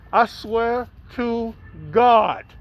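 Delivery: slow, spaced-out oath; emphatic oath. Real, not acted. Comedian swears to the audience his tale is true, slow and emphatic. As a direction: swear it slowly, one word at a time.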